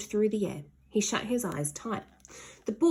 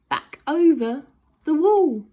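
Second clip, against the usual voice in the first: excited; 8 semitones higher, 10 dB louder than usual. A narrator's reading. Flying through air.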